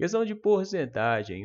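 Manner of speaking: high, loud laughter running through the words.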